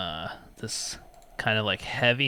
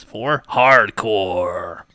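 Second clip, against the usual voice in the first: loud, slow, drawn-out recorded-menu voice; automated phone menu; 9 dB louder, much slower than usual. Pretend. Joking Schrader Phone hotline reading menu options, hammed-up automated voice. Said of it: "welcome to Schrader Phone".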